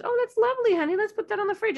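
sing-song high "that's lovely, honey"; dismissive praise. Shown as a demonstration. Parent brushing off a child's picture, sing-song. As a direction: pat them on the head and move on. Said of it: "it's not just".

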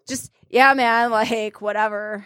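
laid-back bro, dropping away at the end; real chill guy. Acted. Woman mimicking the laid-back guy she dated, chill. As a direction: lightly play the too-chill dude. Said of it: "Just real chill, like".

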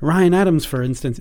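lightly put-on British voice; mock British accent; generic British accent. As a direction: quote him in stock British. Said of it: "do the generic British accent number one".

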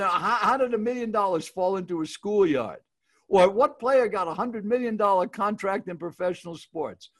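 hook viewers like a nightly newscaster; mild mock newscast promo; news anchor teaser. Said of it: "if you watch the nightly news".

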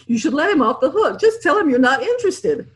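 a lightly voiced chuckling George; George, amused. A narrator's reading. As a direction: say it with a laugh in the voice. George voiced laughing in story.

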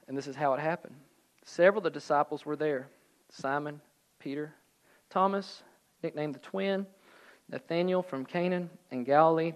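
measured read-aloud with pauses; scripture reading. A narrator's reading. Preacher reading John's gospel to congregation, measured narration. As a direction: read the passage out evenly.

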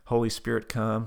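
mildly firm prayer prompt; prayer leader's line. Retold or imitated. Leading Tab in prayer, measured prompt. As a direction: lead a phrase for someone to repeat. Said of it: "repeat after me prayer".

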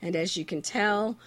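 hoarse from a cold, barely talking; sick voice. Real, not acted. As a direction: talk through a sore throat with a cold. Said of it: "I can barely talk".

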